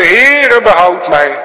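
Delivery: very high, loud desperate plea; cry for help. Retold or imitated. Peter sinking in the waves, crying to the Lord loudly. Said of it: "Net als Petrus die door de golven zakte".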